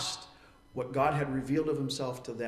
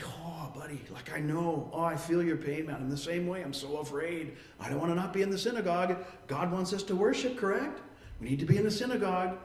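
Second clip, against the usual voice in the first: comforting. Retold or imitated. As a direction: soothe a friend who shares the fear. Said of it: "put the arm around them".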